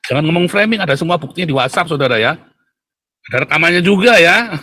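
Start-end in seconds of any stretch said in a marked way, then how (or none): 0.1-0.8 words broken by a real laugh; amused, laughing denial; laughing through words. Real, not acted. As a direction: laugh as you dismiss the claim. Laughs while denying framing.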